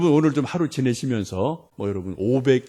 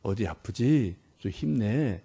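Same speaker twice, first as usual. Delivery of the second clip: a hint of a gentle parent at a sick child's bed; lightly voiced tender mother; 2 semitones lower than usual. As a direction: soothe the child, a touch slow. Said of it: "이렇게 부드러운 말로".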